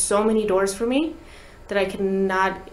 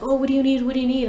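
higher, quick mock questioning; pitched-up imitation of confused crew; puzzled engineers; 4 semitones higher, faster than usual. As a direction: imitate flustered sound engineers asking.

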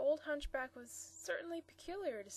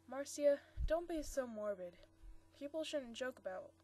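lightly voiced scolding brother, louder on her name; brother Alan; 2 semitones higher, 4 dB louder than usual. Brother Alan chiding his sister, mild scolding. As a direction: chide her for being morbid.

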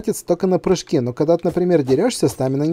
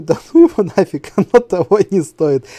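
fed-up quote; 3 semitones higher, 5 dB louder than usual. Retold or imitated. Gamer retelling the moment he quit the fight, fed up. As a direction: give up on it, half laughing. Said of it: "я потом такой думаю".

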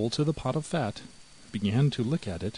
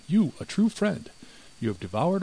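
bitter accusation; 8 semitones higher than usual. A narrator's reading. The mouse accusing the greedy cat, high and bitter. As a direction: throw the word friend back at her.

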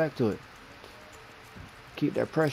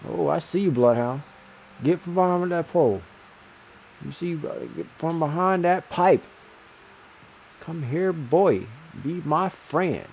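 taunting callout; 5 semitones higher, 3 dB louder than usual. Real, not acted. Taunting enemy player.

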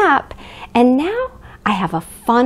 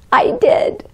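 high little whisper; 10 semitones higher than usual. Acted. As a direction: whisper it playfully. Answering her own question.

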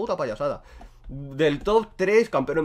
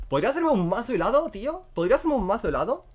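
a higher, lilting wondering voice; sing-song musing; 6 semitones higher than usual. Acted. Gamer wondering aloud which item to build, higher sing-song.

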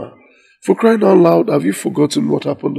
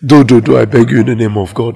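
pleading cry; 5 semitones lower, 7 dB louder than usual. Acted. Son begging mother not to.

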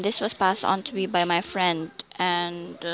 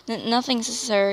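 stuttering. Acted. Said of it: "you stuttered".

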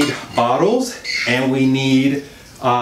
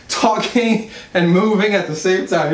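laughing, short of breath; breathless while exercising; 2 semitones higher than usual. Real, not acted. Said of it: "Do you see how out of breath I am".

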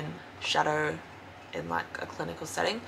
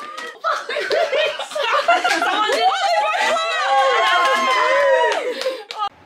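high loud burst of laughter; 13 dB louder than usual. Real, not acted. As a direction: laugh out hard. Laughter after the song.

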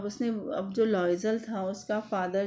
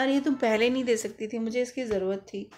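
a touch of mock annoyance; mild irritated scolding; faster than usual. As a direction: imitate a peeved lender scolding, without real anger. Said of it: "डांटते हुए, गुस्से से, झल्लाते हुए भी कह सकते हो".

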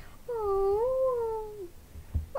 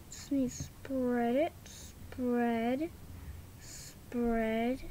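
whispered spread, spread; 9 semitones lower, 9 dB quieter, much slower than usual. Acted. Doll whispering to herself while spreading goop. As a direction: hush it to a breathy whisper.

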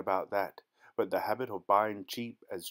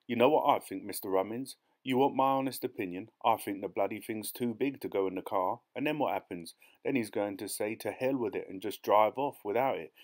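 lightly voiced rustic pessimist; doubtful farmhand. Claude warns Rummins the buyer may leave, lightly voiced doubt. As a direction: warn the boss with a hint of farmhand bluntness. Claude's dialogue in narrated story.

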